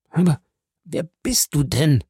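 dying man's final demand; urgent question. A narrator's reading. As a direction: demand it with last strength. Dying Caderousse asks.

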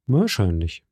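an unhurried, untroubled calm answer; unflappable calm. A narrator's reading. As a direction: say it as if nothing could shake you. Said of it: "mit seiner unstörbaren Ruhe".

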